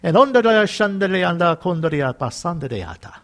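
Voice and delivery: fluent run of unknown syllables in prayer; glossolalia, rolling straight on from English; speaking in tongues. Shown as a demonstration. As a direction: let the prayer flow on into tongues. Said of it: "speaking in tongues".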